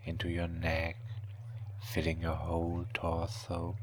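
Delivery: slow whispered hypnosis; hypnotic whisper. Acted.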